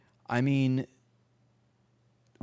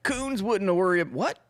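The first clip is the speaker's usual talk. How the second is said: higher, louder mock quote; a touch of mock outrage; imitating her; 10 semitones higher, 3 dB louder than usual. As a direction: parody her rant. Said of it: "She's like".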